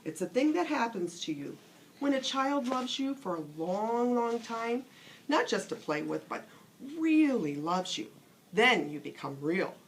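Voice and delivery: a hint of a kind old teacher, unhurried; lightly voiced wise old horse. Skin Horse explaining to the rabbit, lightly voiced and wise. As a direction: explain it gently like an old friend.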